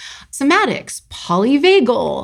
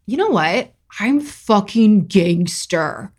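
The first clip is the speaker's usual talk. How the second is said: gangster bravado; slower than usual. Retold or imitated. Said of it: "I was like".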